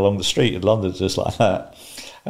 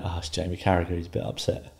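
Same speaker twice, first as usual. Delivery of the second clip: softer, understated dismissal; retold calm; 7 dB quieter than usual. Husband explaining the call to wife, calmly. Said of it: "I was very calm about everything".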